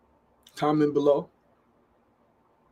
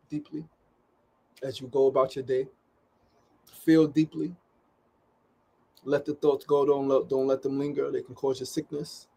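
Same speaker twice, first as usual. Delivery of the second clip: calm guidance. Real, not acted. Host closing his show, gently guiding viewers to breathe. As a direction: ease them into breathing and feeling.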